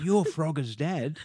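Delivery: put-on slow, awed young fan; drawn out in amazement; imitating the kid. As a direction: kid star-struck by Frogger's dad. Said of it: "he went".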